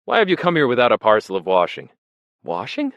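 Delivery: fussy official scolding newcomers; fussy exclaim. A narrator's reading. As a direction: fret over carelessness. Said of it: "he exclaimed fussily".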